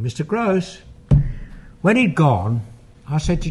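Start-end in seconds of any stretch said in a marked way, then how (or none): 0.0-0.8 imitating Janet's whistling voice. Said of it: "Janet whistling".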